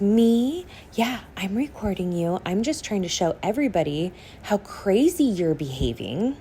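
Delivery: lightly sing-song, mocking mom; a hint of creepy sweet innocence; imitating a smug mother, mildly sing-songy. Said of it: "this really weird sing-songy voice".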